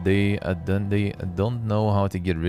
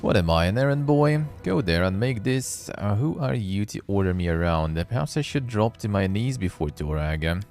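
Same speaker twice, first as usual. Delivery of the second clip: indignant grumbling. Acted. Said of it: "Harim mumbles angrily".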